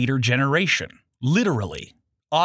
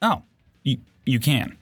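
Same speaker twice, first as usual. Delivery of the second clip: muffled voice through a hand; muffled producer voice. Acted. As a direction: speak through a hand over your mouth. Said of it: "pretending to be the voice of a muffled in-studio producer".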